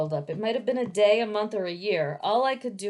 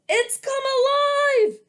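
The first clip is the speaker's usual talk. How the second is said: high gasping shock; 8 dB louder than usual. Acted. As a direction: gasp it out in terror. Magistrate gasps in shock.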